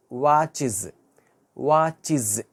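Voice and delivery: వాచెస్ said as "watchiz" with a final iz; వాచెస్ ending in "iz"; model pronunciation. Shown as a demonstration. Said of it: "ఈ sound అవ్వాలి".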